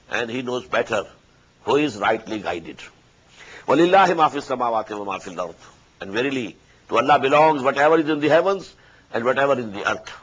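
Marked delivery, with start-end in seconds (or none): 3.7-5.5 melodic, measured tajweed chant; Quran recitation. Acted. Teacher recites the verse to his students, chanted tajweed. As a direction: intone the verse as in prayer.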